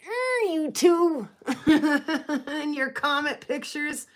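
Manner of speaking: slow laughing tease; teasing laugh. Retold or imitated. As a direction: laugh while teasing them.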